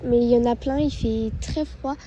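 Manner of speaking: wind on mic. Real, not acted. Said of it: "Je suis désolée pour le vent".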